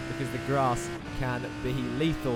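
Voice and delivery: brisk, lively onboard lap commentary; live play-by-play. Real, not acted. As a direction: talk viewers briskly round the circuit.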